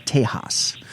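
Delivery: "Tejas" said the Spanish way, as "TAY-hahs". Shown as a demonstration. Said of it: "as some people call it".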